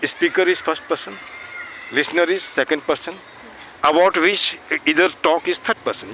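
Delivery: very slow, measured definitions; slow dictation. Shown as a demonstration. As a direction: lay each rule down slowly for notes. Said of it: "और भी अच्छे से समझने के लिए". (बहुत धीमी, नपी-तुली आवाज़)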